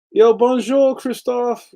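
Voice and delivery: French greeting in a bad accent; "bonjour" with a rough, clumsy French accent; broken French. Shown as a demonstration. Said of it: "Sorry about my bad French".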